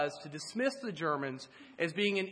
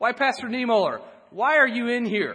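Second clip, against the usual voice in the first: loud, pointed, put-on accusatory tone; 4 semitones higher, 9 dB louder than usual. Speaker retells a Nazi-stooge chaplain questioning Pastor Niemöller: mock-accusatory tone. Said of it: "using an accusatory tone".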